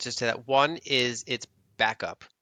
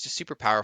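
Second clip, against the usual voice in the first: normal talking voice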